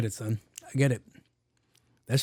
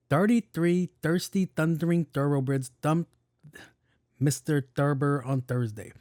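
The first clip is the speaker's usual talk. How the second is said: careful tongue twister. Shown as a demonstration. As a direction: pick through each word with care.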